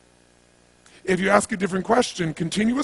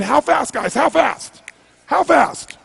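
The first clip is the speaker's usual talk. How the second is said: louder and higher, pushing the crowd for an answer; building call to a crowd, higher and louder each time; rallying shout; 5 semitones higher, 4 dB louder, much slower than usual. Real, not acted. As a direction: fire up the audience with a repeated call.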